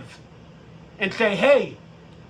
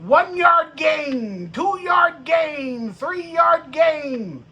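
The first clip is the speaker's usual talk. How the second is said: shouted yard by yard, a bit higher; mock play-by-play shout; 4 semitones higher, much slower than usual. Fan mocking the drive, announcer-style shout. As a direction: call each gain like a hyped announcer.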